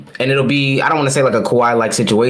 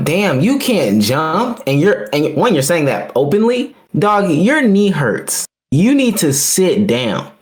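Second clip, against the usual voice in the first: slow, drawn-out disbelief; exasperated scolding; 2 semitones higher, slower than usual. Retold or imitated. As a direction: stretch each word like scolding a stubborn player. Exasperated scolding of injured player.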